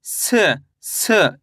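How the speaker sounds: स sounded alone as a short "seh", falling; isolated स, a hissed s with a brief vowel after it; letter demonstration. Shown as a demonstration. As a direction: say each स as its own falling syllable. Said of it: "इस तरीके से सा का उच्चारण करेंगे".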